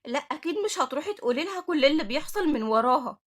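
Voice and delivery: startled, worried disbelief; shocked and fearful. Acted. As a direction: react in alarm at her plan. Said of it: "نورهان بصدمة وخوف".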